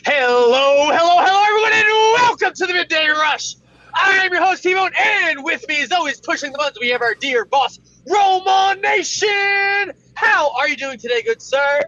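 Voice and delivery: loud, fast morning show announcer; radio host. Acted. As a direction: hype up the show like a DJ.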